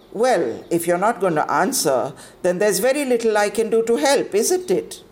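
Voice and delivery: stern, brisk headmistress; cold authority, a little high and fast. Acted. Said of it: "asked the cold voice".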